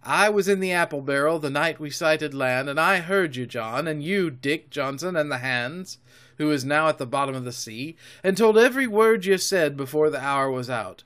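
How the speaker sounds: mounting boast with punched emphasis; excited defiance. A narrator's reading. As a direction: throw it proudly in the pirates' teeth. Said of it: "by this time I was quite excited".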